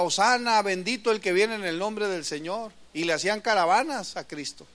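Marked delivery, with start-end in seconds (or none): 0.0-2.7 crowd's hosanna. Retold or imitated. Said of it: "la gente gritaba".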